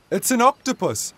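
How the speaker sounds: high, loud cry of discovery; shouting the news to the family; excited shout. A narrator's reading. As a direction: call it out over the splashing. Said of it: "shouted Dad".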